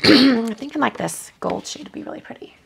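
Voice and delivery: hoarse, raspy worn-out voice; strained raspy voice as it gives out; losing voice. Real, not acted. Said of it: "Sorry, I'm losing my voice".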